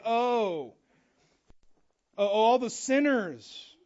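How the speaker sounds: slow, disdainful sniff at sinners; snobbish sniff. Pretend. Pharisees sneering at sinners, slow and snooty. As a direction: look down your nose. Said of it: "sense of, like".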